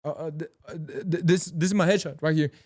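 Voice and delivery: stammering newcomer at an audition; flustered. Acted. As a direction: fumble and restart before getting it out. Acting out fumbling first agency visit.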